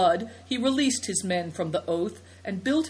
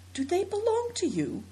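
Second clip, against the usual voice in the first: put-on boy character voice; 13 semitones higher than usual. Boy character asking girl.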